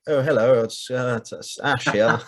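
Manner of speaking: lightly put-on telephone politeness; phone voice. Podcaster mocking his early episodes, slightly posh phone voice. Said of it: "I've got my phone voice on".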